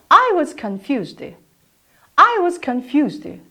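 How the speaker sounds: slow, careful I was confused; slow model sentence. Shown as a demonstration. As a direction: say it slowly with a clean f. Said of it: "따라해볼까요?".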